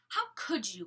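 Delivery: a full-voiced accusing line; not whispered. Shown as a demonstration. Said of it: "I guess that wasn't a whisper".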